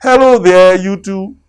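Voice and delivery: high, loud hearty hello; loud cheerful tiger greeting; cheerful cry. Acted. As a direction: call out big and bouncy. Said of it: "Tiger cried".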